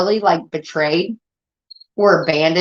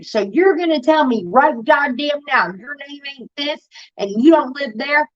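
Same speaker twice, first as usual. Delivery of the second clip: retold confrontation; 5 semitones higher than usual. Retelling confronting the woman.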